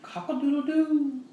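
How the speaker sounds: high rooster crow; crowing proud rooster. Shown as a demonstration. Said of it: "Can you sound like a rooster?".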